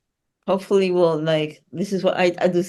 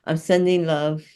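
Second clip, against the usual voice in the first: sending love. Shown as a demonstration. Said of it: "the way you do that is by saying".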